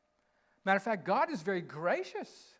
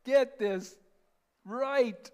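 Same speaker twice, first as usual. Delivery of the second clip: exasperated, mock-angry Moses scolding the people; hammed-up frustration at the rebels, rising loud; worn-out leader losing his patience with the crowd; frustrated Moses; 2 semitones higher, 3 dB louder, slower than usual. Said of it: "It's kinda like".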